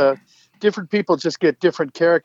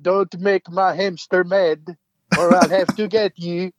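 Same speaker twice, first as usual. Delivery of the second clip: slow, lightly voiced big dumb warrior; a hint of a giant threatening over his hamster; Minsc voice; 3 semitones higher than usual. Recalling the Baldur's Gate line, mildly in Minsc voice. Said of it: "it was all about".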